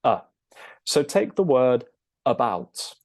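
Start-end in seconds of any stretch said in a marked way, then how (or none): 0.0-0.2 "uh" as a neutral vowel; schwa sound. Shown as a demonstration. Teacher naming the schwa, then sounding a short "uh". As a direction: give "uh" as a bare schwa. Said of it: "it's called a schwa".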